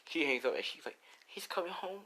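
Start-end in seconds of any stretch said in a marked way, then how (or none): 1.3-2.0 high, softly voiced girlish delight; quietly elated, pitched way up; happy. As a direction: savor the news in a high, happy voice. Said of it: "And, you know, she's happy".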